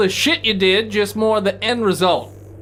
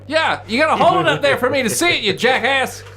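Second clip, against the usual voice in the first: shouting; 5 semitones higher than usual. Acted. GM yells back in character.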